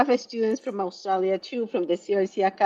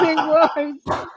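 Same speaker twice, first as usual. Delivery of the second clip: laughing; 6 semitones higher, much slower than usual. Real, not acted.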